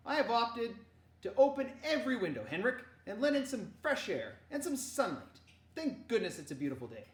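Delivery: high, loud motherly request; mother's voice. Acted. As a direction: ask sweetly but firmly. Mama voiced.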